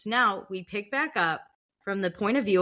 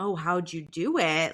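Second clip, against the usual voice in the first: play-acted nosy, slow, prying tone; 3 semitones lower than usual. Retelling a book's plot, voicing a character fishing for a confession: imitating prying questioning. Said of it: "prying for information".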